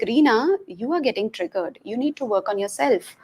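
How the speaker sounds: soft, composed note to self; calm self-talk. Retold or imitated. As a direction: talk yourself down quietly. Calming herself after getting triggered.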